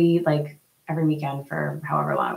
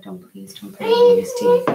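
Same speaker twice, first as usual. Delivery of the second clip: much higher, louder "please don't"; 4 dB louder than usual. Real, not acted. Mother to her child grabbing tea, loud warning.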